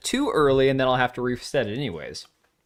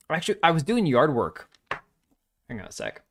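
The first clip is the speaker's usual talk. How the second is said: talking around a cough drop; mouth full. Real, not acted. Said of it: "I can't talk with this freaking cough drop in my mouth".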